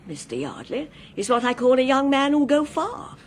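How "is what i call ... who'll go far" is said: chuckling through the words; amused, talking through a laugh; a delighted chuckle on every phrase. Acted. Elderly man amused by young couple.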